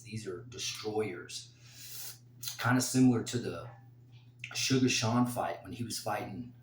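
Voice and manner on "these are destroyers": low, slow, dropped to a whisper; hushed menace. Real, not acted. Fighter pick vlog, hushing to stress the knees' power. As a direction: hush it down to sell the danger.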